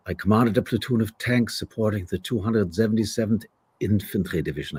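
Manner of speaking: put-on a lightly done German accent. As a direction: recite it as a German tank commander. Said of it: "pages and pages of German lines".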